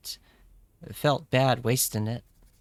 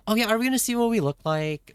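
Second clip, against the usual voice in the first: excited; 10 semitones higher, faster than usual. Real, not acted. Sudden excitement over seeing looks.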